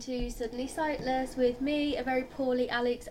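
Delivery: hoarse from the flu; rough, sick croaky voice. Real, not acted. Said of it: "you will be listening to my very croaky voice".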